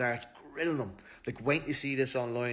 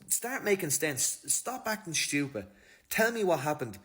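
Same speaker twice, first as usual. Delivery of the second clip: frustrated demand; 5 semitones higher, 3 dB louder than usual. Retold or imitated. Interrogator ordering Ryan to make sense, exasperated and stern. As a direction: lay down the law, fed up.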